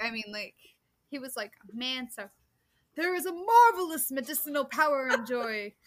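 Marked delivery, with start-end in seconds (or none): 1.7-5.7 loud, booming voice filling a hall. Reading a sermon quote as Charles Spurgeon: Charles Spurgeon booming voice. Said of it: "He had this very booming voice".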